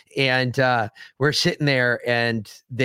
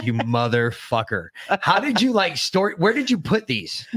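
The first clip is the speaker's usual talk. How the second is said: retold amazed disbelief; 5 semitones higher than usual. Waking covered in planted dildos.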